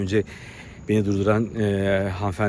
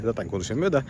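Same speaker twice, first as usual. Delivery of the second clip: normal talking voice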